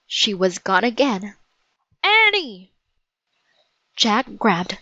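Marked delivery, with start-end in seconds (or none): 2.0-2.7 much higher, urgent call. Acted. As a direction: call for someone gone missing, pitch leaping up. Jack calls out for missing Annie.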